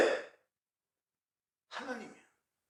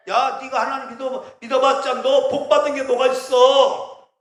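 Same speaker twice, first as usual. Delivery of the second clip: taunting devil; 4 semitones higher, 5 dB louder than usual. Acted.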